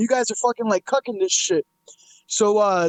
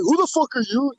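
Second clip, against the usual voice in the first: quoted challenge, slightly raised, rising at the end; retold challenge; 4 semitones higher than usual. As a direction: ask it as a puzzled retort, voice lifting on "you". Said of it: "And the guy's like".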